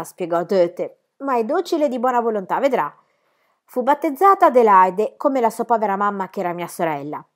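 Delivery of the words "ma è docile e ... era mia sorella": higher, louder placating voice; smooth things over eagerly; pleading aunt. Acted. Aunt reassures the governess about the child, higher and pleading.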